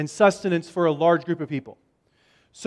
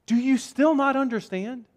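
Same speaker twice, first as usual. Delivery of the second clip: higher-pitched, mildly incredulous question; mild exasperation; 6 semitones higher than usual. Acted. Jesus asking disciples who still miss it, mildly exasperated. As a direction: ask as if they should know by now.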